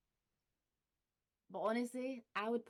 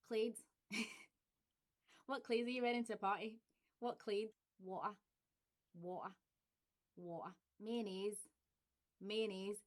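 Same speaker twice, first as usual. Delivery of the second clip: Glaswegian. Shown as a demonstration. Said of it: "accent tag word demo".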